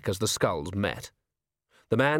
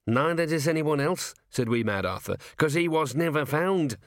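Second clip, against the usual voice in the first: scrappy gnome voice, higher on grudge; indignant gnome; 4 semitones higher than usual. Acted. Gnome rounding on the sergeant, indignant. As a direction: bristle back at him.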